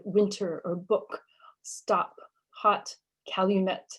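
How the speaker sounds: winter, book, stop, hot, calumet with the t, p, k hit hard; stressed stops. Shown as a demonstration. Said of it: "these sounds are always stressed".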